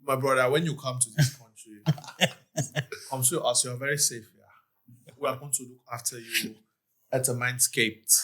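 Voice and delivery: put-on light Nigerian accent. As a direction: greet a Nigerian brother in his accent. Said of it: "You can actually do it in a Nigerian accent".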